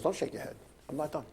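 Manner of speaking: a hint of a stern official, hushed and breathy. Official warning the driver in his trailer, hushed and stern. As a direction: quietly put him in his place.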